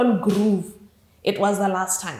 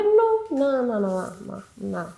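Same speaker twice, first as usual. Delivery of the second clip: fading refusal; 3 semitones higher, slower than usual. Retold or imitated. Asked to go cuss him out, refusal fading away.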